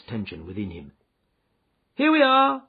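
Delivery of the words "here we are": loud, much higher, bright welcome; cheerily. Acted. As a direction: greet the guest cheerily. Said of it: "said Holmes cheerily".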